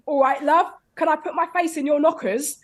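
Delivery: mock London bloke. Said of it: "have you then listened to them".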